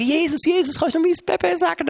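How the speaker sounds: high, eager plea for a blessing; pleading parent. Acted. Parents ask Jesus to bless their baby, high pleading.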